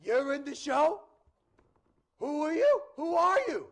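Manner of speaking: put-on high, loud Boston kid; thick Boston accent. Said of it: "talks with a thick Boston accent".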